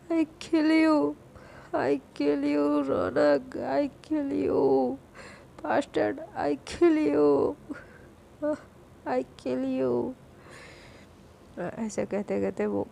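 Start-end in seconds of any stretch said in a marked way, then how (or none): 0.1-10.1 put-on slow, dragged drunk mumble; slurred drunk threat. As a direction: slur each word out like a drunk girl.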